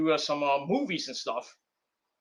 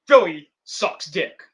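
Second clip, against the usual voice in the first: slow, louder deadpan insult; slow punchy mock insult; cocky jab; 6 dB louder, slower than usual. Real, not acted. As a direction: lay the jab on slowly. Rival city jab.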